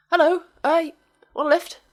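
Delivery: high, slow put-on stranger's greeting; hitchhiker voice. Old hitchhiker greeting the van driver, high and slow.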